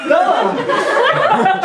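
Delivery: loud high call. Acted. Jacob hailing Bella as he jogs up, loud. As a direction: shout her name from afar.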